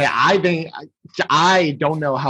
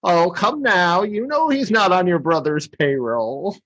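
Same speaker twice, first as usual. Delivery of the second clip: lightly voiced chiding wife, higher; gently scold, slow on the opening; Missus Claus; 3 semitones higher than usual. Missus Claus answering Heat Miser, mildly chiding higher voice. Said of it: "Heat Miser talks to Missus Claus".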